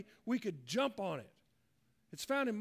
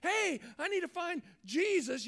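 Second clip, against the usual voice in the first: mock yell, raised pitch; calling out; 4 semitones higher, 4 dB louder than usual. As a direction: call out for help, lightly acted. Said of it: "if someone yells out to you".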